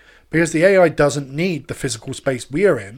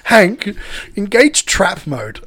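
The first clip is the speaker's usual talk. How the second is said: robot command voice; 5 semitones higher, 5 dB louder, much slower than usual. Acted.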